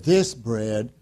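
slow solemn quote of Jesus. Retold or imitated. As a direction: intone it slowly and gravely. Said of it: "He said".

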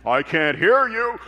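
loud drill sergeant demand; drill instructor shout. Retold or imitated. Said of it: "my old drill instructor".

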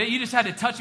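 laughing. Real, not acted. Laughing at the dog story.

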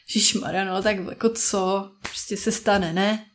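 acted offhand brush-off; dismissive friend. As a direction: shrug off a friend's mishap. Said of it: "ale prostě jindy jiná nálada". (odbytě, bez soucitu)

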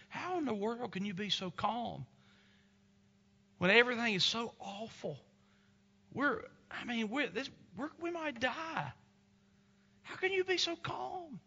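a wife pleading in fear, voice climbing high; frightened wife. Retold or imitated. Wife pleading with her calm captain husband, panicked and high-pitched. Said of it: "And the wife was scared".

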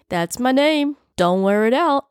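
high-pitched, pleased ghost voice; high and playful, delighted with himself. A narrator's reading. Delighted ghost Jack speaks.

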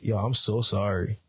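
a touch of soft, sorry tone; gently apologize, only lightly voiced. Friend apologizing to angry driver, lightly soft voice. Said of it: "Like, soft voice".

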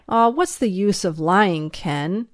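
mildly disgusted reproach; fed up with the excuses, mildly; a touch of disgust. Acted. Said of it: "he said in disgust".

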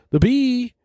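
very high-pitched, held-out squeal; Seinfeld impression. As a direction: push it way up high and stretch it out. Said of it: "That's my Seinfeld impression".

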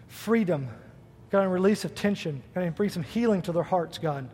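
closing prayer. Acted. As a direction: pray over the congregation gently.

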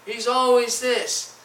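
offended complaint. Acted. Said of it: "he could get offended".

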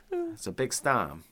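slow mock Maine accent. Islander talking about the weather, slow put-on Maine accent. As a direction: draw out stom with no R, Maine style. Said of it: "The hard R's".

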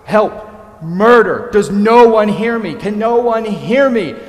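high, loud, panicked calls for help; desperate high shout of murder and help; crying out for help. Retold or imitated. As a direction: yell for help like a dying man crawling. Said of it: "he's crying out".

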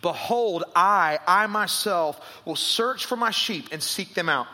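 reading scripture aloud with weight. Acted. Pastor reads Ezekiel to the congregation, proclaiming. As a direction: proclaim the prophet's words.

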